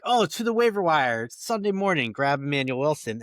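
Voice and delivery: high, loud mock-panicked scramble; retold panic. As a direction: act out your own frantic last-minute decision. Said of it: "in a panic".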